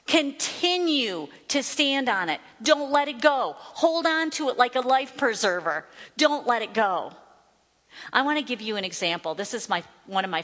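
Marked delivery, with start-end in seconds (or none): 0.1-7.1 urgent exhortation. Real, not acted. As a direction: urge them on, higher and emphatic. Exhorts listeners to hold on.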